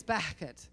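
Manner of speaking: "Beckett" with a throaty break in the middle; foreign name pronunciation. Shown as a demonstration. Wife introduces husband's hard-to-say name, throaty "Beckett". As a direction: say "Beckett" as if clucking. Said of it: "Now, you guys try to say that".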